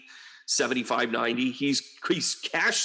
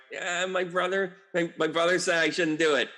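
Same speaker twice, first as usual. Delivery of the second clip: mock Ukraine; 5 semitones higher than usual. Mocking Ukraine backing down, higher sheepish voice. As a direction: lightly play the meek kid brother. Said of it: "they were like".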